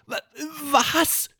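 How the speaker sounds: hoch, stockend, überrascht; verdutzter Ausruf. Acted. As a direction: erst stocken, dann verblüfft hochfragen. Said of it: "ruft Paul". (Paul stockt verblüfft, hohe Stimme)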